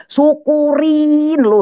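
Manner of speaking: loud, high, drawn-out jeer; menyukurkan suami. Retold or imitated. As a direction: gloat at the husband, stretching the words out. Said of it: "Dengar saya syukurin". (ejekan lantang dipanjangkan)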